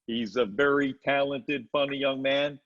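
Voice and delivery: lightly put-on manager voice; a touch of impersonated manager; Barry Katz. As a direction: do a mild imitation of a manager introducing a new client. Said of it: "good impression of Barry Katz".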